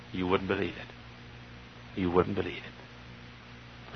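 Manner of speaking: preacher hushing the crowd with a slow warning; hushed. Real, not acted. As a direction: drop to a near whisper. Dropped low after shouting.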